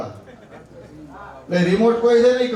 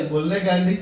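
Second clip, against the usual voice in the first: a fond, lowered "ગાંડી"; affectionate tease; 3 semitones lower than usual. Shown as a demonstration. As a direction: coax her gently, the way a husband does when the two are alone. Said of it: "એ બહુ વાલનો શબ્દ છે".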